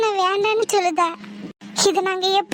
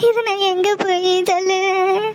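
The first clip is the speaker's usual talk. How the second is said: slow, wailing grief; anguished lament. Acted. Wife wailing to the household over her husband's noose, slow anguished lament. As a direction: cry out your despair, slowly.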